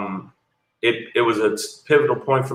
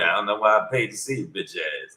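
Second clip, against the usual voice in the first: fast, softer, lightly voiced Charlie Murphy put-down; Charlie Murphy heckle; 4 semitones lower, 6 dB quieter than usual. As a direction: rattle it off like a mild Charlie Murphy impression. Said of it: "They turned into Charlie Murphy".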